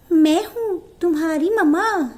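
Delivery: wolf imitating the goat mother after practising; wolf mimicking mother goat. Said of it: "training करी थोड़ी सी कि बकरी कैसे बोलती है". (बकरी माँ की नकल करता भेड़िया)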